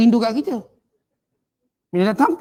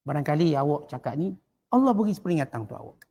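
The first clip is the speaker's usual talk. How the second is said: muhasabah; 4 semitones lower, 4 dB quieter than usual. Acted. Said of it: "Muhasabah lain".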